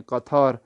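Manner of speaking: قطار with toe sounded as "tha"; aspirated th. Shown as a demonstration. Teacher telling learners to read toe as tha, aspirated th. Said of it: "توا کو تھا کر کے پڑھیں".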